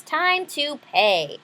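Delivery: sly magic man. Acted. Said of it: "He says".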